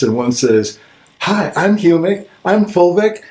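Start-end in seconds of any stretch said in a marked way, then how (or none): 1.2-3.2 lightly voiced cartoon character, higher and sing-song; a hint of a bouncy cartoon mascot singing its ad; cartoon jingle voice. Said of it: "two cartoon characters who are doing a song and dance".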